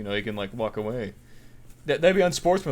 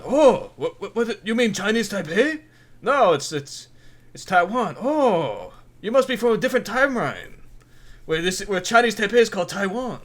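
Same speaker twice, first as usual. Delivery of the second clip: higher, louder mock bewilderment; mock puzzled official; 5 semitones higher, 4 dB louder than usual. Chinese official feigning confusion at a Taiwanese traveler, in hammed-up bewilderment. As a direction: play the baffled official, hamming it up.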